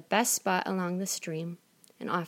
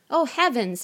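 a high, louder cry of dismay; shocked exclaim; 6 semitones higher, 5 dB louder than usual. Acted. Mother sees vipers and toads from her daughter, high shocked cry. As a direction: gasp it out in horror. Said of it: "exclaimed the mother".

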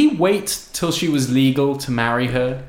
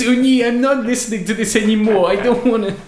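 Woody Allen impression; 7 semitones higher than usual. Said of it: "it's Woody Allen".

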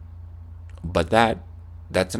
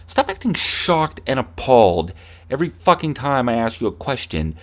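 acted angry rant; 2 semitones higher than usual. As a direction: rant at an imaginary opponent. Acted rant at imaginary opponent.

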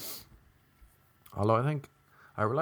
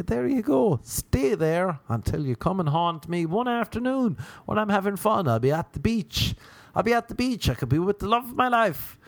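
dreamy; 9 semitones higher than usual. Acted. Dreamy imagined self-talk.

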